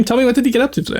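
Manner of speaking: high cute questioning voice; sweet anime streamer ask. Acted. VTuber asking a viewer.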